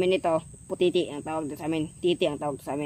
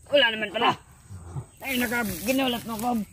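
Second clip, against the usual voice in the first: startled; 6 semitones higher than usual. Acted. Startled reaction.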